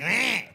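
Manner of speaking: little mock cry of a falling old lady; old lady's grunt. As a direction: feeble old-lady yelp, hammed up. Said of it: "She's like".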